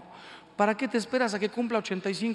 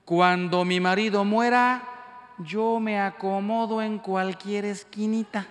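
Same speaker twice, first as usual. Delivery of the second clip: mother-in-law; 2 semitones higher, 4 dB louder than usual. Retold or imitated. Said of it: "oí a mi suegra que dijo".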